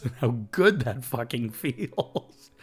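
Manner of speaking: slow, broken by happy laughs; laughing with emotion. Real, not acted. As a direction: laugh through the words, overwhelmed. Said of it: "I'm just feeling it again".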